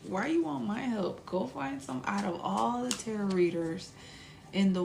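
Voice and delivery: hammed-up incredulous questioning; mock indignant. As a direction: send a hater away in amused disbelief. Acted telling-off of a hater.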